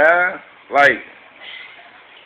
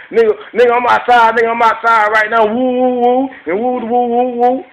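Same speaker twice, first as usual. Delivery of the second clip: fake-tough yelling, higher and louder; mock tough phone threat; 5 semitones higher, 4 dB louder than usual. Imitating a tough guy calling to say he's outside, loud mock yell. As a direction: play a wannabe tough guy barking on the phone. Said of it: "You be on the phone. Tell me".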